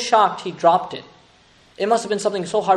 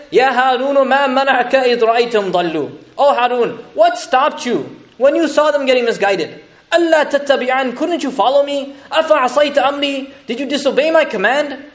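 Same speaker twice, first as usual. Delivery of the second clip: mildly angry Musa; 4 semitones higher than usual. Retold or imitated. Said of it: "Musa is so mad".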